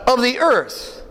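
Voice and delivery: slow, measured scripture reading. Shown as a demonstration. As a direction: read it aloud slowly with the congregation. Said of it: "read with me".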